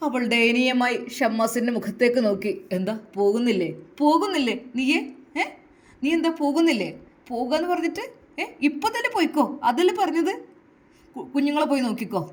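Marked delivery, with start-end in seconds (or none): 2.8-12.2 rising, bitter taunt; husband taunts his wife, furious and wounded; angry and sad. Acted. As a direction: push her to leave, voice climbing in hurt anger. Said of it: "ദേഷ്യം പിടിച്ച് സങ്കടത്തോടെ അത് പറയുമ്പോൾ".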